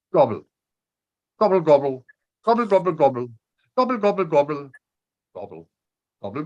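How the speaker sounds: loud gobbling turkey calls. Pretend. Turkey voice in an ode.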